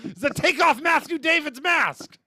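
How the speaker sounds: high-pitched cartoon shock, slowing on the reveal; drawn-out, high mock astonishment; mock unmasking reveal. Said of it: "a Scooby-Doo reveal".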